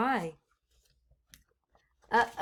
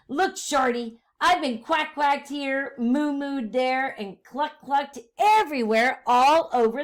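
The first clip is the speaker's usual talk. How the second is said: farmer voice; 3 semitones higher, 5 dB louder than usual. Acted. Pig disguised as farmer answers.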